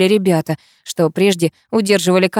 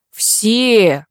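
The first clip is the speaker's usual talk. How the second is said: yelled. A narrator's reading. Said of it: "заорал так".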